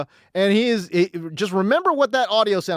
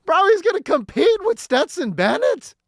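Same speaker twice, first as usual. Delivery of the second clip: incredulous disbelief; 5 semitones higher than usual. Real, not acted. Host reacts to coach's clip.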